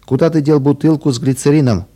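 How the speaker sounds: mild narrated shout. Acted. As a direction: call out after him, lightly. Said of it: "закричал Рик".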